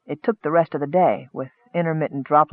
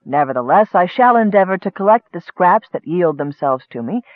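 formal scribe's letter. Acted. Scribe reporting to his lorekeeper master, formal. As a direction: address the master with ceremony.

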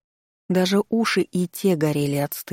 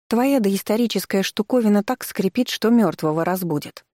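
grumbling; 5 semitones higher than usual. Acted. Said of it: "проворчала Дженни".

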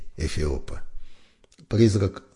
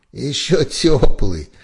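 choking with laughter; 8 semitones higher, 9 dB louder, slower than usual. A narrator's reading. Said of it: "захлебнулся смехом Кац".

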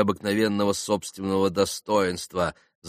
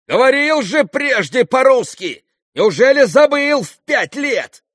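angry; 11 dB louder than usual. A narrator's reading. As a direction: shout the reproach, out of patience. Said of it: "Она вся покраснела от гнева". (гневный высокий крик)

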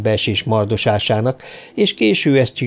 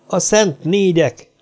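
slow password; 7 semitones higher, slower than usual. A narrator's reading. Ferrier gives password.

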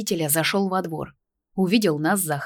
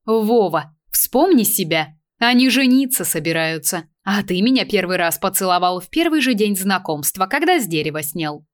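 teasing scolding; 2 semitones higher, 4 dB louder than usual. Acted. Mother scolds father about youth.

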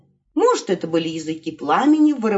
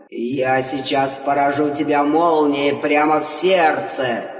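low, slow threat; threatening god; 5 semitones lower than usual. Acted. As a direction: threaten with lightning. (низкая медленная угроза)

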